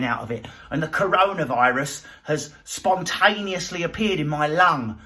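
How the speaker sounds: lightly voiced old granny; a hint of a cheery frail granny. Granny on a hospital trolley, in a light old woman's voice. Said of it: "some granny aged eighty ... going".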